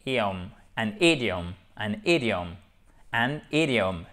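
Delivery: AN IDIOM, linked with no breath before the I; no H on IDIOM, falling close; idiom without an H. Shown as a demonstration. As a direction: model "an idiom", "id" said as one syllable. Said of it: "sans mettre le H".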